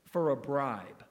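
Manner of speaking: "for a bribe" slow and set apart; stress on for a bribe. Shown as a demonstration. Preacher shows the congregation which phrase to stress. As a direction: lean hard on "for a bribe". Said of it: "I want to emphasize this phrase".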